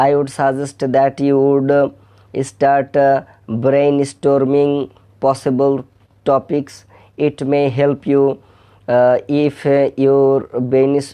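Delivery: slow, halting Bengali-accented English reading; Bangladeshi English accent. Shown as a demonstration. Teacher reads aloud to viewers, slow Bengali-accented English. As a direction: read the passage like a typical Bangladeshi English speaker. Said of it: "যদি আমি আমাদের মতো করে পড়ি".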